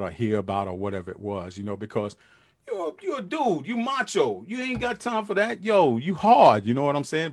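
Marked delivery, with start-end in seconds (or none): 2.7-6.6 high, mocking voice for the tough guy; mock the macho attitude; mock macho dude. Host mocking macho dudes to his viewers.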